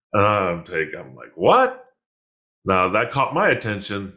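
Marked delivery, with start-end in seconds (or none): 1.4-1.9 high, sharply rising "what"; startled question. Retold or imitated. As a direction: imitate being caught off guard. Startled by the ghost reveal.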